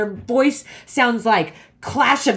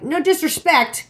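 mock polite; 8 semitones higher, slower than usual. Her online comment voiced.

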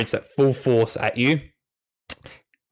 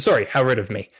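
happy dog; 3 semitones higher than usual. Acted. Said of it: "He smiles happily and says".

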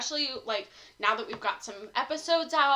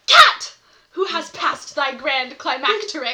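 hammy stage actor; 8 dB louder, slower than usual. Acted. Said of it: "can you go back to the first sentence".

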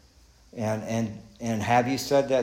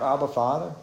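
"Abba, Father" with a rising, asking tune; questioning call; 3 semitones higher than usual. Shown as a demonstration. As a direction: say "Abba, Father" as a question to the congregation, the end going up. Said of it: "Do you cry out".

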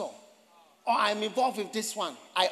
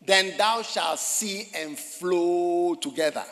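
scripture reading; 6 semitones lower, much slower than usual. Shown as a demonstration. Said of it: "Verse five".

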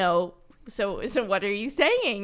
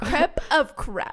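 slow, laughing mangle of a French word; giggling through the words; 4 semitones higher, 5 dB louder, slower than usual. Real, not acted. Cohost mispronouncing crepe, cracking up with laughter.

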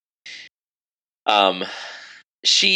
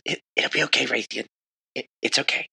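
soft, halting encouragement; lightly voiced pep talk to a worried friend; gentle reassurance; 4 semitones higher, 3 dB quieter, much faster than usual. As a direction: reassure them quietly, stumbling a little. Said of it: "Ruby looks at you".

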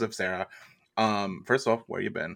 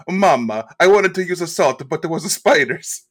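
little Tommy; 6 semitones higher, 8 dB louder than usual. Acted. Little Tommy answers his mom.

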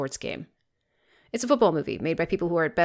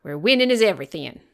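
put-on West Texas accent. Telling co-host about West Canaan, mock Texas accent. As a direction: put on a bad small-town Texas accent. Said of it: "do a terrible Southern accent".

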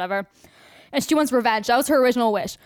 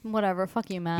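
muttered much softer under the breath; mock muttered dismissal; 3 semitones lower, 8 dB quieter than usual. Mock muttered brush-off at Matt. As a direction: toss it off quietly at Matt. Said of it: "you're not good at doing that".

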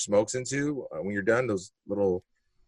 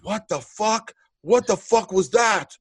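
imitated shocked drunk; 10 semitones higher, 4 dB louder than usual. Drunk man reacting to being hit.

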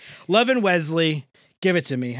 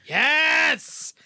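excited; 10 semitones higher than usual. Real, not acted. Cheering Rachel's pick of Claire.

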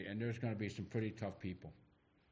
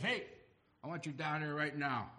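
higher-pitched, commanding call; 5 semitones higher, 3 dB louder than usual. Acted. Jesus calls Zacchaeus down from his tree, commanding. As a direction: call someone down with urgency.

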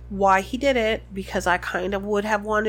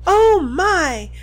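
shocked gasping cry; 7 semitones higher, 8 dB louder than usual. A narrator's reading. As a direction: gasp it out in fright. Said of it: "gasped Hermione".

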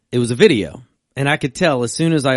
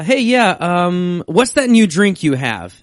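eager order; 8 semitones higher, 7 dB louder, slower than usual. Retold or imitated. Retold drive-thru order.

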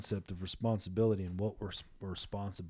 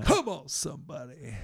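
higher, louder rallying cry; preacher's call-out; 7 semitones higher, 5 dB louder than usual. Real, not acted. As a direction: call for the congregation's response. Preacher calls on listeners to respond.

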